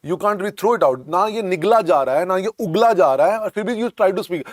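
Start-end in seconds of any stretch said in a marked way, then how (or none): 1.1-4.5 hurried words round a hot mouthful; fast, as if something hot is in the mouth; rushed, mouth full. Shown as a demonstration. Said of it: "put a hot object in your mouth".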